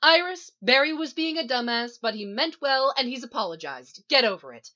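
loud, high, bossy scolding; exasperated, forceful telling-off; roaring. A narrator's reading. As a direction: lay down the law at full voice. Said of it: "she roars".

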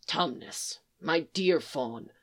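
soft, slow, tender address; gentle comfort. Acted. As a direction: ease the grieving friend gently. Beaver consoles the grieving fawn.

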